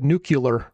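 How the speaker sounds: NUCLEAR said as NOO-kyuh-ler; imitated mispronunciation. Quoting the co-host's mistake, imitated mispronunciation. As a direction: slip a kyuh into the middle of nuclear. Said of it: "but you said nuclear".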